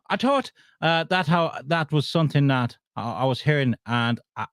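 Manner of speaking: halting mock-Irish reading; stumbling attempt at an Irish accent. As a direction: read the quote in put-on Irish. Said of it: "trying to do it with an accent".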